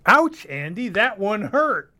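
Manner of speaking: high, slow hammed-up hurt; mock hurt. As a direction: play wounded, over the top. Scripted mock hurt reply.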